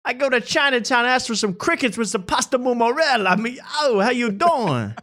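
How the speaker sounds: high-pitched mock comic delivery; a singer's style. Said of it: "everything's the same. It's like".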